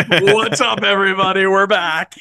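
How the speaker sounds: loud, high-pitched hammed-up stage greeting; mock hype greeting. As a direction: play the big comeback entrance to a crowd. Mock return of coach on stage.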